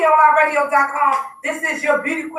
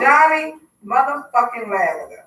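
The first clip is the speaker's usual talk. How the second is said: Johnny stretched out, then motherfucking Lavender falling away; drawn-out name emphasis; 2 semitones lower than usual. Shown as a demonstration. Host announcing the co-host's new nickname, drawn-out emphasis. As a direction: savour each word of "Johnny motherfucking Lavender". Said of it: "say it just like that".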